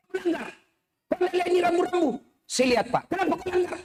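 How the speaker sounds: scolding policeman. Retold or imitated. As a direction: scold the kid like a cop. (polisi menegur anak sekolah dengan tegas)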